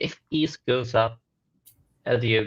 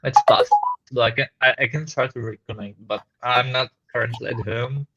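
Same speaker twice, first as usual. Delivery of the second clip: muffled and static; 4 dB louder than usual. Real, not acted. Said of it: "muffled and static".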